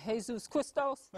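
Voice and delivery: "Jesus Christos" as hay-ZOOS KREES-tohs, questioning; attempted Spanish pronunciation. Shown as a demonstration. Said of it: "in Spanish".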